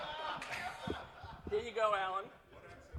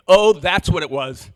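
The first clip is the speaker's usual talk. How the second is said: louder, punched "Oh"; mock realisation; 6 dB louder than usual. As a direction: throw it out loudly as a scornful quote. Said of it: "is not debugging".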